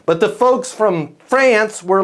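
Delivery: ordinary talk, nothing marked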